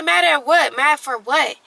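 mock-indignant disbelief; indignant retort. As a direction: throw the question back, affronted. Retells her indignant reply to gossip.

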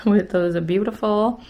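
mock praise, dry and teasing; sarcastic. Real, not acted. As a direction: say it with heavy sarcasm. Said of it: "if you can sense my sarcasm".

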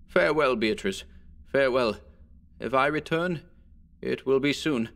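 steady, resolved goodbye; firm farewell. Acted. Alonso to his cousin, a firm resolved farewell. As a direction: hold the voice firm. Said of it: "with firm voice he said".

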